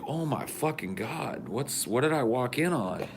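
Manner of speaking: stunned at what you walked into; shocked. Retold or imitated. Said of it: "And I was like".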